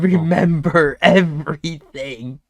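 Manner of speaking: slow, loud mock yell; rooftop scream. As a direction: proclaim it like a shirtless old man on a rooftop. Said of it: "screaming on the rooftop".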